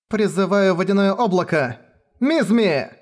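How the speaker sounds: high shouted incantation; shouted spell. Acted. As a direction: cry out the spell. Girl casts spell.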